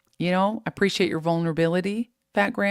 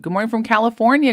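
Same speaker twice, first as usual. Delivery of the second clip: quick, higher and louder good morning; bright sing-song hello; cheerful greeting; 5 semitones higher, 7 dB louder, faster than usual. Real, not acted. Reading viewer greeting.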